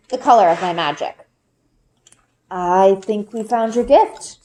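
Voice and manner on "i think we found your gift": slow, proud father's voice, lightly lowered; a father gently telling his daughter the news; Papa. A narrator's reading. Papa gently telling Bryn about her gift, lightly voiced and slow. Papa's lines in read story.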